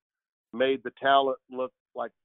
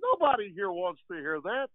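Harry Caray impression; 11 semitones higher than usual. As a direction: do the old Cubs announcer, hamming it up. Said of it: "that's a little bit of Harry there for you".

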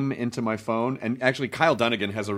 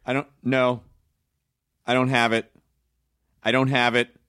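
yelling at phone menu. Retold or imitated. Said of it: "I'm screaming at the automated voice".

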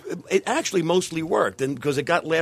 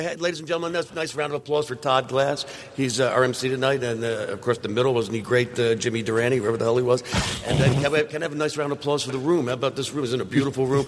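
emcee voice; 4 semitones lower than usual. Retold or imitated. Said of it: "my absurd opening".

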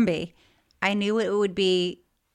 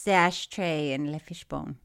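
put-on lower, light French accent; 6 semitones lower than usual. Host recalling store name, light French accent. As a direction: echo the name with a touch of French. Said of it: "use French accent for this".

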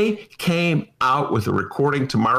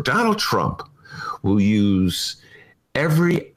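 whisper. Acted. Dramatic aside about Trump.

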